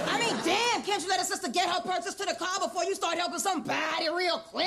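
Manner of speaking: quick, rattled-off complaint; indignant scolding. Acted. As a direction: tell him off in one fast run. Customer scolds clerk for leaving her.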